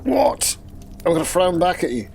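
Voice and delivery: sharp high what. Acted. Character answering McCutcheon's frown with a high puzzled what. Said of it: "and I go".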